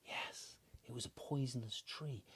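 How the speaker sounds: soft secret whisper; telling children a spooky secret in a whisper. Acted. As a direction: lean in and whisper it.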